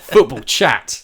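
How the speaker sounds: dramatic slow announcer. Shown as a demonstration. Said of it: "It should just be called chat".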